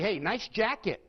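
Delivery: friendly, genuine "Hey, nice jacket" with a bright lift on "jacket"; mean it, like you really like the jacket; sincere compliment. Shown as a demonstration. Teacher demonstrating a sincere "Hey, nice jacket" to the class. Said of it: "You get one impression".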